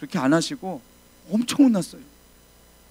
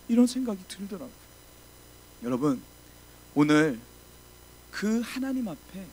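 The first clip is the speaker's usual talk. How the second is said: normal talking voice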